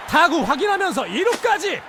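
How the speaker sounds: high, slow shout on the safe; excited safe call. Real, not acted. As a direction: stretch out the call.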